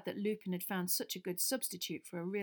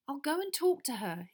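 eager, higher pledge; promising; 7 semitones higher, 4 dB louder than usual. A narrator's reading. Wood promising Harry, eager. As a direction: promise firmly. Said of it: "he promised".

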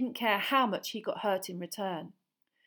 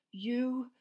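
slow, higher bitter voice; bitter accusation; 4 semitones higher, 4 dB louder, slower than usual. Acted. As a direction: accuse him slowly. Harry confronts Black.

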